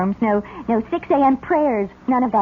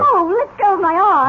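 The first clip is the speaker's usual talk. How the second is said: protest; 4 semitones higher, 5 dB louder than usual. Acted. Girl protesting being grabbed.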